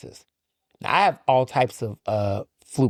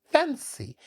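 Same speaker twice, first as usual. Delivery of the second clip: a mocking put-on posh accent, pitched much higher; Doctor Parks's fancy accent; 14 semitones higher, 4 dB quieter than usual. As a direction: mimic a friend's fake fancy accent, teasing. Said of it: "And she says it like that".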